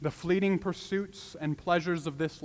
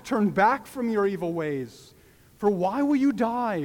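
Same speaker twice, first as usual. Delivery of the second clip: God pleading; 3 semitones higher, 4 dB louder than usual. Acted. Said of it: "It carries the same tone".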